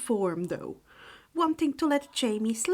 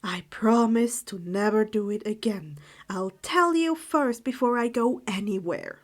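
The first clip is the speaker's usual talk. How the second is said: solemn promise; 3 dB louder than usual. Acted. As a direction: promise it gently, meaning it. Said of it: "Harry promised solemnly".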